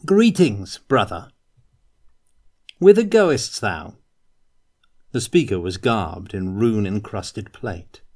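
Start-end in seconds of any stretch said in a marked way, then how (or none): 0.0-4.0 higher, louder, strange hail of a knight; high, loud archaic greeting from a chaos knight; eerie warrior greeting. A narrator's reading. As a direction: call out with unsettling courtesy. Armoured warrior hails Kurt.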